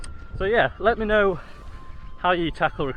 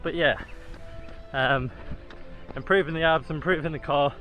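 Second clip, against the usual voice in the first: talking mid-run, steady stride; while jogging. Real, not acted. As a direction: speak while jogging along. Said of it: "going along pretty nicely now".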